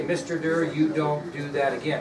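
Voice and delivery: firm but mild mock warning; pretend scolding. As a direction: act out a student getting after the teacher. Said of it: "She's getting after me".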